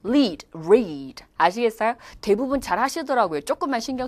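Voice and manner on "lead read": "Lead" tongue-tipped, "read" with rounded r; L versus R. Shown as a demonstration. Teacher models for viewers, "Lead, read" clearly contrasted. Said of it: "요거 발음 한번 해볼게요".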